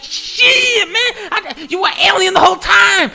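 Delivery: very high, loud screech; hammed-up shock. Hero seeing Steinfeld turn alien, screeching shock. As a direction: yell it in over-the-top disbelief.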